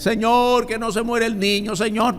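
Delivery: high, lightly voiced begging cry to the Lord; a hint of a desperate father begging; pleading prayer. David begging the Lord for the child, mildly pleading.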